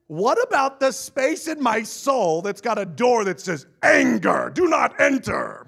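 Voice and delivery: hammed-up indignant shout; mock outraged protest. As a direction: protest it in a big comic voice. Mock protest about anger door.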